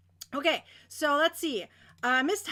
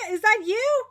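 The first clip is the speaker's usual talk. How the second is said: laughing; 6 semitones higher, 7 dB louder than usual. Real, not acted. Laughing while calling to chatter.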